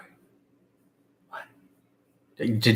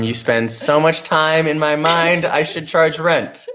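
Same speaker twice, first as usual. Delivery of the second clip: high, slow, corny line with a laugh; cheesy pickup line; 6 semitones higher, slower than usual. Pretend. Reading a pickup line to the audience, slow and corny. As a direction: lay the dad joke on thick. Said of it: "another dad joke".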